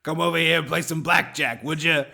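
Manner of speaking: lightly put-on New York Italian mobster; a hint of a tough New York Italian gangster; New York Italian accent. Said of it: "doing our bad New York Italian accent".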